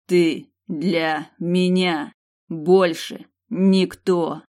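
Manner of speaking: cold man spelling out each word, very slow; coldly hammered words. A narrator's reading. Mercenary cuts her off, each word hammered. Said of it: "Он вычеканил последние слова".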